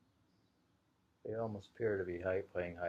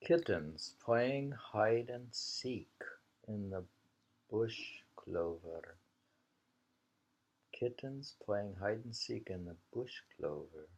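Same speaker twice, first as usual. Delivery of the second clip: poem reading. Acted. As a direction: read it like a poem, unhurried.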